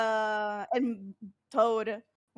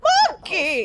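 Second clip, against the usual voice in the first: loud high yell; shouting; 10 semitones higher, 9 dB louder than usual. Pretend. Calling out the monkey.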